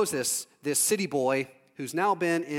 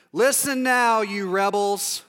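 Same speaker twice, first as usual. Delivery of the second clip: stern rebuke; 2 semitones higher, 5 dB louder, slower than usual. Acted. Moses to the rebels at the rock, loud stern rebuke. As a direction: raise the voice on the rebels.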